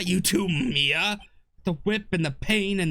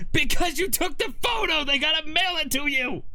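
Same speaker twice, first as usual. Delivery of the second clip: frustrated shouting; 10 semitones higher, 4 dB louder than usual. Real, not acted. Frustrated outburst at others.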